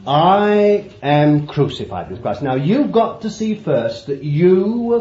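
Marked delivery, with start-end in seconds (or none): 0.1-2.4 quoting Paul. Retold or imitated. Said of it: "what Paul saw".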